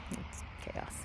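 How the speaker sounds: breathy hushed aside; whispering. Real, not acted. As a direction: whisper it to the camera. Whispered repeat.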